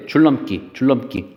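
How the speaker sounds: 줄넘기 as jul-leom-kki, n turned into l; liquidized pronunciation. Shown as a demonstration. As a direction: repeat 줄넘기 with double l and tense kki. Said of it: "얘는 발음 어떻게 해요?".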